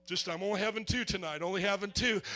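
mild imitation of a cautious believer; mock churchgoer. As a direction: brush off the offer, lightly voiced.

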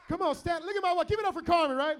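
loud, high call for applause; excited hyping up. Real, not acted. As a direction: show her off proudly to the crowd. Showing wife off to congregation.

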